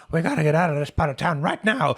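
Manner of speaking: loud urgent order; urgent old man. Acted. Old man telling the boys to leave, urgent. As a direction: press them to get out fast. Herb urging escape.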